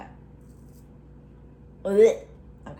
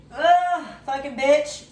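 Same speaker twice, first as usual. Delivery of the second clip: annoyed curse; 4 semitones higher, 5 dB louder, slower than usual. Real, not acted. Oil spitting at her.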